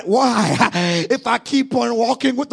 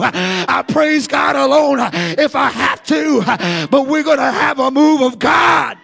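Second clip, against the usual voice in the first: hint of a resolute hero; defiant Samson; 3 dB louder than usual. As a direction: declare it like a lone fighter. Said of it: "But Samson said".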